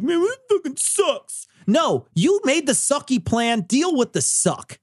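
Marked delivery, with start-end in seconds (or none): 0.0-1.5 much higher, whiny put-on voice; mock whine. Mocking the planner to the cohost in a high whine. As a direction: whine like a sore loser over his own plan. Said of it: "cry afterwards and be like".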